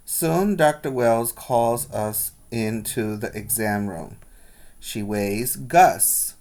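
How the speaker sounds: put-on lively read-aloud for children; storybook reading voice; story narration. A narrator's reading. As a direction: tell the story brightly to the class. Teacher reads picture book aloud.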